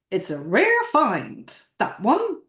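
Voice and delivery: a lightly put-on voice for the elderly market seller; a touch of an unplaced accent for the elderly seller; old seller's put-on voice. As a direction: give the old seller a hint of an unplaced accent, slow at first. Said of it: "I'm not good at accents".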